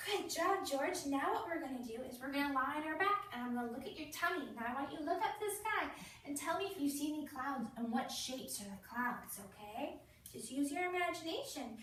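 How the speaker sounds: put-on lightly sing-song voice for a small child; playful nurse voice for a little boy; talking to a child. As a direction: coax a four-year-old gently. Nurse talks to child patient.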